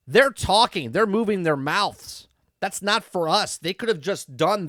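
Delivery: incredulous outburst; exasperated rant. Real, not acted. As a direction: vent at the silly scene. Ranting at the scene.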